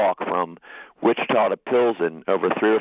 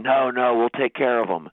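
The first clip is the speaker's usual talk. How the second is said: mildly voiced protest, pitch a little raised; retold protest; 4 semitones higher than usual. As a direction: quote the men objecting on his behalf. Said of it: "the men protested".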